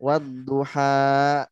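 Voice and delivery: slow "Wadduha" with a push at the end; drawn-out "Wadduha" with the last "ha" jolted; wrong-way demo of "Wadduha". Shown as a demonstration. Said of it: "Jangan digas di ujungnya".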